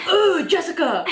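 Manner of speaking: high mock-startled exclamation. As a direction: mimic someone recoiling, with a laugh. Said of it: "scooted away from me and said".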